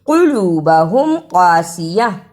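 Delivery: "कुलूबहुम कासिया" with heavy qaf, stopped on breathy -ah; heavy back q in "कुलूबहुम कासिया", closed as at a pause; pausal ending. Shown as a demonstration. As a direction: end "कुलूबहुम कासिया" on -yah, dropping the -tan. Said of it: "रुकने की सूरत में".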